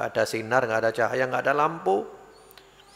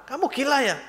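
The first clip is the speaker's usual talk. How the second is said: mock angry; 11 semitones higher than usual. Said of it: "dia marah".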